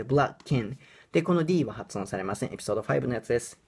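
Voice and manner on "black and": "black and" with the K running into the a; linking demo. Shown as a demonstration. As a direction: join "black" and "and" as one word. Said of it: "ここはKとAがくっつきます".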